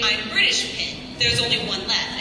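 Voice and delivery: ordinary talk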